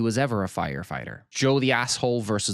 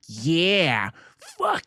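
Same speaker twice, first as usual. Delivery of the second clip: much higher and louder, venomous outburst; mock fury; 8 semitones higher, 4 dB louder, much slower than usual. Hostess silently cursing the guest, much higher and louder. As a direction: spit it out with hatred. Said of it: "Angela's face, like".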